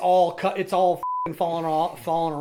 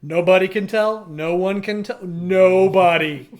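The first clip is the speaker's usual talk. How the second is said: exasperated; 6 dB louder, much slower than usual. Retold or imitated. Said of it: "made me go".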